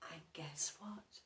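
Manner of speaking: put-on hushed whisper to the children; breathy storyteller's whisper; suspense whisper. A narrator's reading. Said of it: "storyteller builds suspense".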